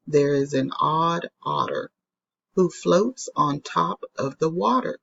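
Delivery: put-on rhythmic poem read to children. Shown as a demonstration. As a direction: read the rhyme with a bouncy beat. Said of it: "And it says".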